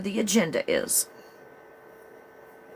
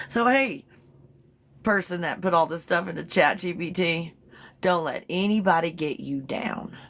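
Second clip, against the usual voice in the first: a faint hint of the Valley Girl; lightly flattering, Valley Girl mostly dropped. Vlogger as Chat GPT, Valley Girl voice slipping away. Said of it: "I dropped the Valley Girl bro-, voice".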